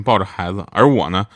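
ordinary talk, nothing marked

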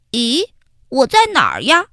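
put-on puzzled young ant, asking quickly; a lost little ant looking around; confused little ant. Ant Heihei wakes confused. (迷糊的小蚂蚁自言自语)

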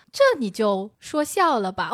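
put-on slow, lightly Taiwanese-accented boss line; a hint of a Taiwanese accent, drawn out. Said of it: "不是，不是，他是台湾腔".

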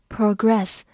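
"progress" as a verb, stressed proGRESS; second-syllable stress. Shown as a demonstration. Teacher reviews the verb form for learners, "progress" stressed on its second syllable. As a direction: put the weight on "gress" in "progress". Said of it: "或者发progress做一个动词来讲".

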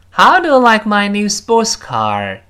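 How stressed high, falling at the end on car; wh-question tone demo; falling tune. Shown as a demonstration. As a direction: start high on How and let it drop. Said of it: "特殊疑问句最后降调哦".

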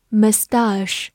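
"mustache" as muh-STAHSH, open ah in the second syllable; second pronunciation variant. Shown as a demonstration. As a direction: say "mustache" with a weak first syllable and long AH. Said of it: "它有三种发音都是对的".

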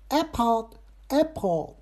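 "Apple" slow and high, the ending softened away; faded word ending. Shown as a demonstration. Host practising English aloud, careful fading endings. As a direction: stretch "Apple" and let its back half fade. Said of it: "它后边就淡了".

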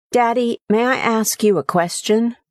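put-on a small boy shyly asking his daddy; young son's voice. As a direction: son timidly asking his tired father. Child asking father.

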